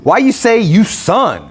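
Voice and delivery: quoting a movie line in a put-on voice. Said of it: "remember when T I, he goes".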